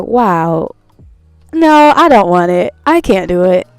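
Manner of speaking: hammed-up panic, backing away; mock panicked refusal. Retelling her own panicked refusal.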